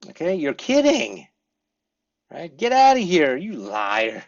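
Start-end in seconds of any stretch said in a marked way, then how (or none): 0.4-1.3 high and louder disbelief; surprised you're kidding. Shown as a demonstration. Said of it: "Like this". 2.6-4.2 loud, high teasing get outta here; playful disbelief. Shown as a demonstration. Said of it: "say it with a smile".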